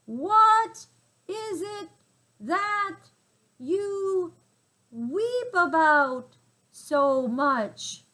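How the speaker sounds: high, loud, very slow gasping words; out of breath. A narrator's reading. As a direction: gasp it out while shaken in the air. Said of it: "trying to get his breath".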